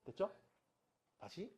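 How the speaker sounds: ordinary talk, nothing marked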